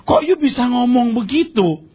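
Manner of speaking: high-pitched, disappointed challenge; dismayed protest. Retold or imitated. Preacher recalls challenging a speaker's claim, dismayed. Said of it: "Saya itu kecewa gitu".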